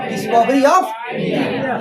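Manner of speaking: Discovery of India stretched out slowly, word by word; very slow drilled title. Shown as a demonstration. Teacher slowly spelling out Discovery of India for students. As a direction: drag out Discovery of India so they memorise it. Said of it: "क्या नाम था?".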